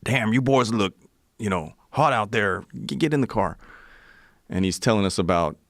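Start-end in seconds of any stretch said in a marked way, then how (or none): 0.0-3.6 lightly voiced cowboy. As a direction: play the cowboy picking up hitchhikers, only lightly. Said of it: "John Wayne picks us up, cowboy guy".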